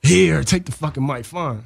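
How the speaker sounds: annoyed. Retold or imitated. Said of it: "gave me the mic real stiff".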